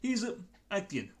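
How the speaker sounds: Cockney goblin like Michael Caine; Marjode. Acted. Goblin thanking fellas for helping, pleading Cockney voice. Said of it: "I'm gonna do a quick character voice".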